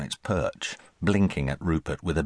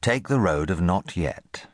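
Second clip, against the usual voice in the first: slow, measured title read; plain title reading; chapter title read slowly. A narrator's reading. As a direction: announce the chapter title with weight. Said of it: "Chapter one".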